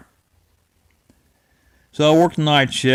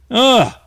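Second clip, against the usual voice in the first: disgusted ugh; 10 semitones higher, 4 dB louder than usual. Retold or imitated. Dreading the haunted bridge.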